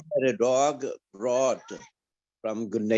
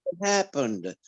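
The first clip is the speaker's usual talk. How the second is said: higher, pleading cry to the Lord, retold; mild retold lament, pitched higher; crying out to God; 5 semitones higher than usual. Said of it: "And I cried out".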